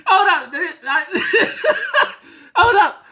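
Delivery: high-pitched helpless laughter through the words; can't get the words out for laughing; breaking up mid-sentence; laughing hard. Real, not acted. Cracking up reading the story.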